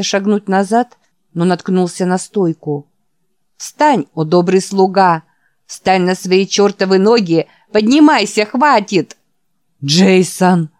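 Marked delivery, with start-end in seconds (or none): 3.6-9.2 loud, laughing plea to stop; exasperated shouting. Acted. Jack pleads while giggling. 9.8-10.7 ecstatic cry. Acted. Old man cries out.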